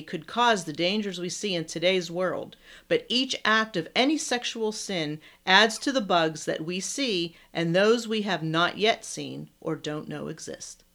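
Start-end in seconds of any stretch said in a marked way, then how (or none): 2.9-10.8 breath running out at the end; winded from reading one long sentence; running out of air. Real, not acted. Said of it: "I'm running out of breath reading this".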